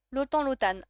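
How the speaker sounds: Lotan first with nasal ending, then "lo-tann"; trying both pronunciations. Shown as a demonstration. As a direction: say Lotan two ways, n silent then sounded.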